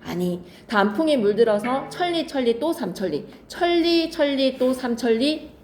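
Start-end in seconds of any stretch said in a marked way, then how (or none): 3.5-5.5 천리 raised, then 천리 또 삼천리 slowed and drawn out; stretched emphasis. Shown as a demonstration. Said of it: "삼천리에다가 밑줄".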